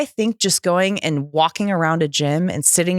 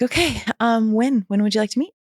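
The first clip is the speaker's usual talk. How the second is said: higher, tentative asking; retold awkward politeness; 5 semitones higher than usual. Woman arranging to meet her ex-husband, nervous politeness. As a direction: ask hesitantly, pitched up.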